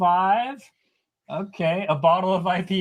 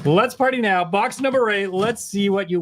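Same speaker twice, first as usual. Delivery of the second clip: hype announcer; 4 semitones higher, 4 dB louder than usual. Real, not acted. Hyping the giveaway reveal.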